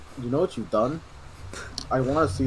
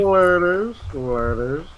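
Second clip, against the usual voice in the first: monk doll voice; 5 semitones higher, 4 dB louder, much slower than usual. Acted. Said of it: "the monk doll voice".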